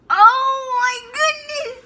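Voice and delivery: surprised. Real, not acted. Sees makeup result.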